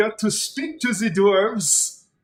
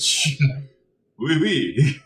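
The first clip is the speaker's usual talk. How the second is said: put-on French accent; 2 semitones lower, 4 dB louder than usual. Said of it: "they have the French accent".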